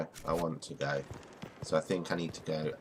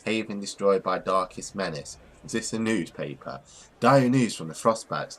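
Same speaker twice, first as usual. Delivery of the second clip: announcer reading the headlines; news read. Acted. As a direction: read it like a town crier. Reads in-game newspaper aloud.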